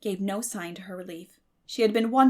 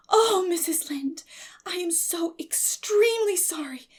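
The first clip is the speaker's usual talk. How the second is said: quivering plea; 10 semitones higher, 5 dB louder than usual. A narrator's reading. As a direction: beg forgiveness on her knees. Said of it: "with a quiver in her voice".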